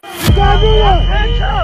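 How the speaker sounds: shouted command. Real, not acted. Officer commanding during arrest.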